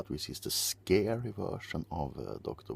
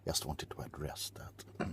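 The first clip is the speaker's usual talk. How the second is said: whispering. Acted. ASMR whisper aside.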